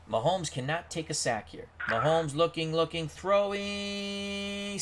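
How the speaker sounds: excited play-by-play. Real, not acted. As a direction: call the big play like a stunned commentator. Excited live play-by-play call.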